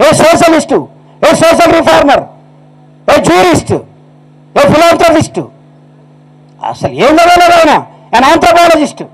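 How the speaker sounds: high, ringing orator's list of titles; fiery preaching. Acted. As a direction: preach it to the crowd at full force. Orator praising Ambedkar. (సభలో ఉద్రేకంగా ప్రసంగించడం)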